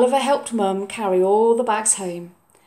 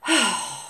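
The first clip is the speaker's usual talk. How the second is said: sigh. Acted. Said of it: "sighed Oliver".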